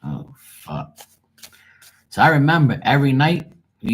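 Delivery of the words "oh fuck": shocked then deflated. Retold or imitated. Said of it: "And I'm like".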